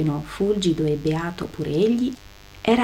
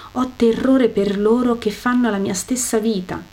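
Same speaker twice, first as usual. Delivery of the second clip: crying out harder. Acted. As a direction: beg Abraham desperately, voice rising. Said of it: "piangendo più forte, gridò". (supplica più forte e più acuta, quasi in lacrime)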